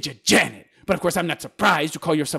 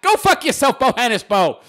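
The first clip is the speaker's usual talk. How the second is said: high, cackling dismissal; gleeful outburst through laughter; laughing insult; 7 semitones higher, 4 dB louder than usual. Real, not acted. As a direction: laugh it out at the heckler. Drops butler act, laughing insult.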